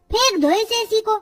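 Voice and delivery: angry outburst. Acted. Raju angrily tells his parents to throw the AC away. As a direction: toss it away in frustration. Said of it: "Raju गुस्से में ऐसा कहकर".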